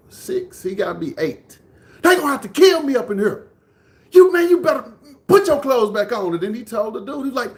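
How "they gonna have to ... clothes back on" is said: loud, high imitation of a protective brother; heated, raised-pitch protest; retold defiant yell. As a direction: act out a kid ordering his brother.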